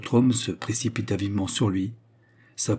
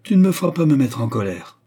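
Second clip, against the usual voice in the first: sly smile; 5 semitones higher, 7 dB louder than usual. Acted. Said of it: "avec un sourire malin".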